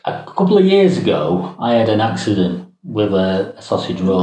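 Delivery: lisping through a tooth gap; lisp from missing tooth. Real, not acted. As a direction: talk with a gap in the front teeth. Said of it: "we can hear you lisp".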